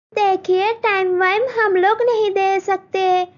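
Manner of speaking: high, demanding in-law voice; groom's mother testing Malti's cooking; haughty groom's mother. Acted. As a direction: quiz the bride condescendingly.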